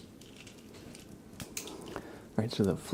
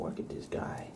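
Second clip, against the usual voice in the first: breathy unvoiced whisper, much softer; 8 dB quieter than usual. Real, not acted. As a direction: murmur it to the cat as if not to wake him. Whispering, then cooing at cat.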